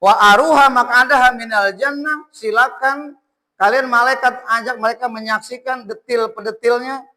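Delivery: emphatic proclamation in God's words; preacher lightly voicing a divine order; God's command. Recites, then voices God's order to angels.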